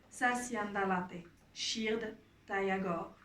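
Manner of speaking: measured recitation with pauses between lines; deliberate poetry reading; poem reading. Acted. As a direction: read the poem line by line, unhurried. Reads a Romani poem aloud.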